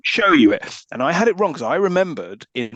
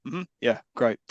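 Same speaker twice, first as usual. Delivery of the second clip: bored; 3 semitones lower, 3 dB quieter than usual. Retold or imitated. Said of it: "he looks like he can't be fucked".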